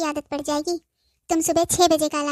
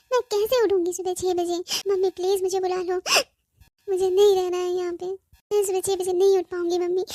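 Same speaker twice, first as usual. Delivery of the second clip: crying. Acted. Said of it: "ये रोना बंद कर".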